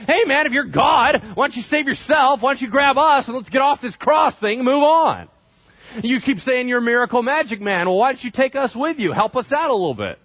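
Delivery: high, loud mocking rant; heaping insults. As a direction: taunt him loudly, acting out the jeering criminal. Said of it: "began to literally heap insults".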